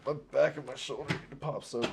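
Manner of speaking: strained voice while stretching; talking mid-stretch, straining. Real, not acted. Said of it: "Sorry, I'm over here stretching".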